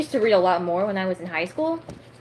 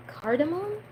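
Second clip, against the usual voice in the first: tentative, higher, rising question; unsure pronunciation; 10 semitones higher, 4 dB quieter than usual. Real, not acted. Reader doubts how to pronounce a new word, questioning. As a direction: try the unfamiliar word as a question. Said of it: "is that how you pronounce that?".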